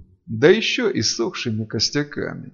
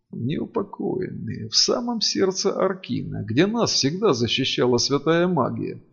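cold-blooded calm; 4 semitones higher than usual. Acted. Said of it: "хладнокровно проговорил инквизитор".

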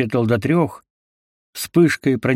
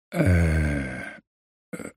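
softer, lower weak murmur; limp murmur; 6 semitones lower, 6 dB quieter than usual. A narrator's reading. Captive answers feebly, limp murmur. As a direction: barely get it out. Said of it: "вяло произнёс пленник".

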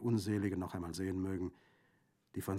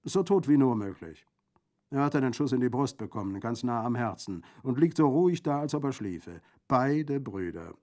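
loud, higher, hearty bandit voice; jovial bandit, gleeful; 5 semitones higher, 8 dB louder than usual. Acted. Bandit reports both brothers dead, loudly gleeful. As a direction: report the deaths with callous relish.

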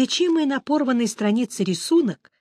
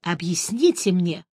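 cold; 2 semitones lower than usual. A narrator's reading. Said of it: "холодно сказал Геральт".

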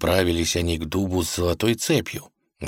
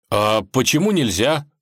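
higher, puzzled asking; surprised question; 5 semitones higher, 4 dB louder than usual. A narrator's reading. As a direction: ask why in surprise. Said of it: "удивился Иван".

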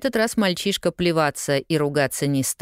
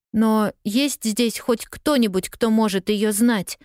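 put-on higher, slower pleading girl; plaintive cry; 6 semitones higher than usual. A narrator's reading. Lost girl to newsboy, plaintive exclaim. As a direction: beg for any help. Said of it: "жалобно воскликнула Полианна".

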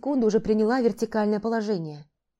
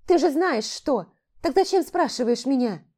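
upset retort; 6 semitones higher, 4 dB louder than usual. Acted. Heroine refuses, upset.

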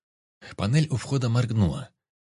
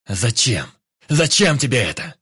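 furious yell; 4 semitones higher, 8 dB louder than usual. A narrator's reading. Vik enraged at the doctor.

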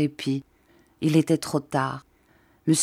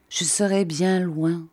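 slow repeat. Acted. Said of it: "répéta-t-il lentement".

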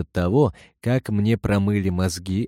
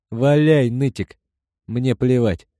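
defiant shout; 3 semitones higher, 3 dB louder than usual. Acted. Older brother brashly dismisses threat.

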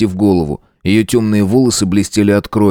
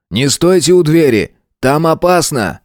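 higher, pressing warning call; shouted warning; 6 semitones higher than usual. A narrator's reading. Lawyer to schoolchildren, raised urgent warning. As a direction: warn them off the door, a little raised. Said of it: "крикнул".

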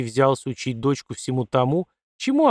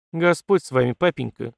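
indignant. Acted. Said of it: "возмутилась Катерина в ответ".

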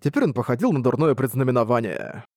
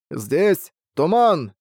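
muffled voice; 4 semitones higher, much slower than usual. Acted. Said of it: "произнёс приглушённый голос".

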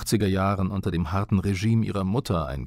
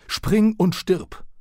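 much higher and louder, each word dragged out slowly; slow furious yell; 11 semitones higher, 4 dB louder, much slower than usual. Retold or imitated. Father screams at his son on the balcony, slow furious yell. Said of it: "brüllte er mir hinterher".

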